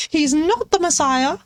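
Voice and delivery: same line, laughing, with only a slight lift; laughing repeat. Pretend. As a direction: chuckle through the quote.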